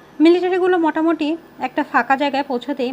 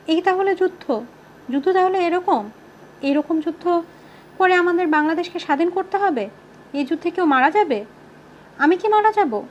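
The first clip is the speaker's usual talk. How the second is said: higher-pitched, incredulous questioning; dazed wondering; 6 semitones higher than usual. A narrator's reading. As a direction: let each question rise in dawning disbelief. Narrator's dazed questions in battle.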